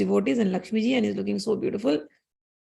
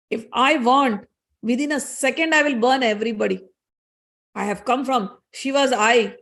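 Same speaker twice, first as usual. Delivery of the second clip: angry retort; 2 semitones higher than usual. Acted. Fire god Agni defying Indra, mildly angry. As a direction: scoff at the king, mildly heated.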